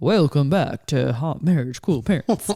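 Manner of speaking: loud, nasal, put-on announcer voice. Recalling the co-host's old podcast openings, the speaker imitates his nasal announcer voice. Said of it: "You used to have an announcer voice on".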